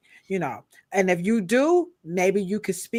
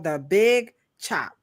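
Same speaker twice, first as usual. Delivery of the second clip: announcing The big chop with slow weight on big; a mock-dramatic reveal; dramatic announcement; slower than usual. Host cueing Cheryl for a dramatic sound, slow announcer tone. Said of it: "Here we go, Cheryl".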